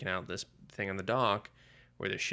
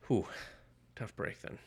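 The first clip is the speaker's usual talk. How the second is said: dry whispered quip; 5 dB quieter than usual. Retold or imitated. Shadow shrugs off missing gun.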